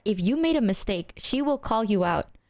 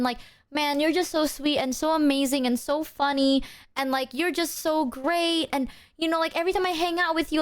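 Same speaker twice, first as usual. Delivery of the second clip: higher-pitched imitation of a gushing friend; nice, sweet buttering-up; 4 semitones higher than usual. Friend sweetly easing into a confrontation, said nicely. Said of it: "she'll say it nicely".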